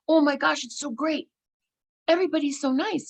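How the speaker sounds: high-pitched delighted gush; gushing enthusiasm. Retold or imitated. Telling the taqueria man she loves it here, high gushing.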